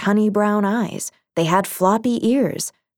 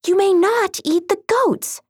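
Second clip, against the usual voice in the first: higher, firmer princess warning; firmer cartoon princess; 13 semitones higher than usual. A narrator's reading. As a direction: repeat it sternly, higher. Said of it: "she said again".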